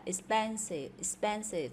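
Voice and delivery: "expensive" stressed on PEN; second-syllable stress. Shown as a demonstration. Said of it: "nhấn âm thứ hai". (nhấn âm thứ hai trong "expensive")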